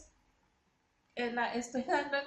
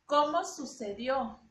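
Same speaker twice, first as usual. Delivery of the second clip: slow question leaning on "Cómo"; deliberate question with weight on "Cómo"; question intonation; 3 dB louder than usual. Shown as a demonstration. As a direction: ask it slowly, "Cómo" stressed. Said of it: "si nosotros ponemos la pregunta".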